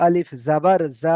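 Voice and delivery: আলিফ জাবার যা, slow with যা stretched long; drawn-out Arabic letter reading. Shown as a demonstration. Teacher to online class, reciting the letter drill slowly. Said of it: "এখানে টান হবে".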